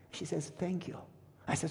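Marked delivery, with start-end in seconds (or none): 0.5-1.0 soft, understated gratitude; retold tearful thanks. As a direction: imitate quiet thanks through tears. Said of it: "And she was crying".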